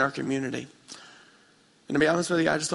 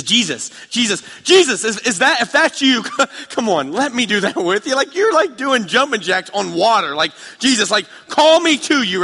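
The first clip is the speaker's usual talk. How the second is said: much higher and louder, eager pleading shout; excited calling out; 9 semitones higher, 9 dB louder than usual. Retold or imitated. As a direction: call across the water, begging to come. Peter calling out to Jesus.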